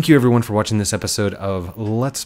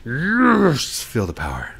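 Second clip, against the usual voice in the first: triumphant; much slower than usual. Real, not acted. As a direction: gloat over the purchase. Triumph after buying.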